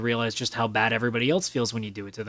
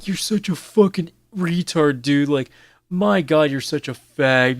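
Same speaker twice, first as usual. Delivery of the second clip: mocking toxic gamer; 3 dB louder, slower than usual. Mocking toxic lobby players with slow sneering insults. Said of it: "people would start going around making fun".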